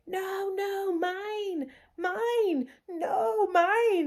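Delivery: put-on high toddler sleep-talking protest. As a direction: imitate the toddler crying mine in her sleep. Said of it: "in a sleep going".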